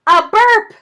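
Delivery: high, loud amused call; surprised exclamation. A narrator's reading. Narrator exclaiming at the belch, amused. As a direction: announce it with delight.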